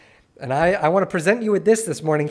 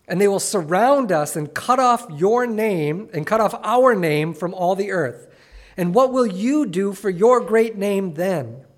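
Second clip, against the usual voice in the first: raised, earnest reading of the passage; scripture reading; 2 semitones higher than usual. Acted. Preacher reads Joshua's lament to the church, earnest reading. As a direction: read the lament to the congregation with weight.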